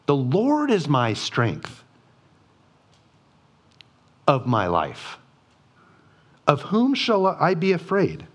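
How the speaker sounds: lifted, confident preaching of "afraid". Acted. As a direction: throw the question out to the room. Repeats verse while preaching.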